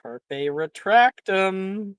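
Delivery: slow, drawn-out magic words; spell incantation. Acted. Game master voicing a spell, slow incantation. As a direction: intone the spell at half pace.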